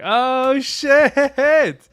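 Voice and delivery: mock-amazed cheer for a new haircut; hyping up a friend. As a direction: gas up your boy's fresh cut. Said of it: "You're like".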